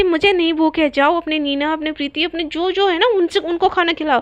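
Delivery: mildly angry, huffy refusal; a touch of acted temper; jealous anger. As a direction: send them off in a jealous huff. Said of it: "इतना गुस्सा क्यों हो रही हो".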